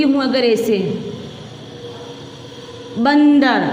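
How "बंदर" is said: "बंदर" with a clear n before द; anusvara sounded. Shown as a demonstration. Teacher showing the other spelling reads alike, "बंदर" with its n sounded. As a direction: sound the nasal in "बंदर" distinctly. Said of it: "तो शब्द क्या बन गया मेरा".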